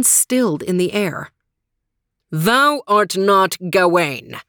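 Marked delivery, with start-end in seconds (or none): 2.3-4.4 slow, stagey archaic declaiming; crying out. Acted. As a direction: call him out as a coward. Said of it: "cried the Green Knight".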